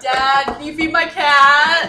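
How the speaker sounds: slow, loud, high plea; loud pleading. Retold or imitated. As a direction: drag out the whiny ask. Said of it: "And you're like".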